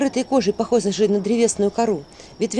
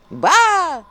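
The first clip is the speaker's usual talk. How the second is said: high, scoffing skull laugh; cackling skull; 9 semitones higher, 5 dB louder than usual. A narrator's reading. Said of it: "усмехнулась черепуша".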